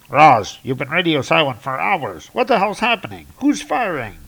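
demanding answers over the radio; worried Coulson. Acted.

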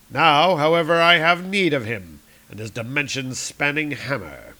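lightly voiced scheming villain; Doctor Doom monologue. Doom narrating his plans to himself. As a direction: read it as a proud armored tyrant.

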